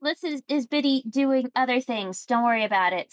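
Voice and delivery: a cheerful merchant asking the customer a favour. Acted.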